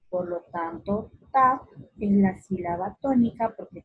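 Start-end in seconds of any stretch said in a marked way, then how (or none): none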